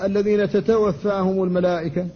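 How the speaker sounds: تتوفاهم with both ta sounds held tense; doubled ta kept tense. Shown as a demonstration. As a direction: say تتوفاهم keeping each ta tight, not swallowed. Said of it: "فلا بد من الحفاظ على شدتها". (نطق تتوفاهم بتشديد التاء)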